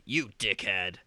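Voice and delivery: imitated American game-hero line; American accent. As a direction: put on an American accent for the insult. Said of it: "in an American accent".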